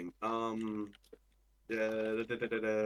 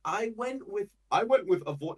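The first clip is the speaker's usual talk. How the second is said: higher, fancy British-style accent; mock fancy British accent; 10 semitones higher, 6 dB louder than usual. Shown as a demonstration. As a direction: put on a posh-aiming British accent. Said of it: "if I were to do that accent".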